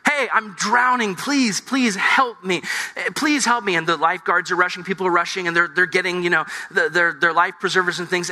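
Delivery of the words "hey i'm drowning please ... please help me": pleading, pitched higher; drowning swimmer begging the shore for help, mock panic; mock drowning plea. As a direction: call out like a swimmer going under, hammed-up. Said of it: "you yell out to the shore".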